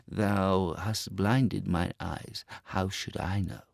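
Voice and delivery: slow, soft, reproachful mole; bitter mole. Acted. Mole reproaching the Star Child, slow and soft. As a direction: answer with quiet blame. Mole's voice.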